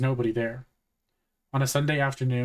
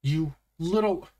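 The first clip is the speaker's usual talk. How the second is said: slow, drawn-out angry threat; understated yell, seething and slow; 4 semitones higher, slower than usual. A narrator's reading. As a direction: draw each word out, pitch raised. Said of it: "Suzuki was yelling".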